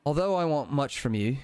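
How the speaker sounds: lightly voiced Cockney; a second go at a Cockney accent; Cockney British accent. Deity addresses the player in a light Cockney accent. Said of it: "kind of Cockney British accent".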